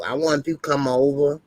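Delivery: a hint of Drew inviting someone to dinner; Drew impression. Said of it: "that's your Drew impersonation".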